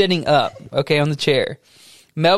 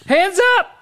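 mock police order; 10 semitones higher than usual. Imitating rescuers shouting orders.

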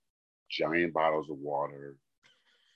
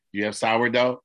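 loud; 5 semitones higher, 6 dB louder than usual. Retold or imitated. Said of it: "he says".

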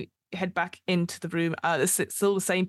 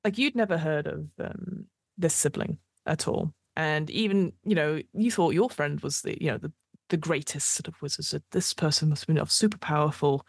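game master narration. Acted. GM describing the streets of Sigil, measured narration. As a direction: paint the aftermath for the player.

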